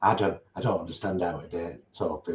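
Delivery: put-on reading in a mild northern English accent. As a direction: slip into a northern English accent, a little fast. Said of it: "Why am I doing you with a northern accent".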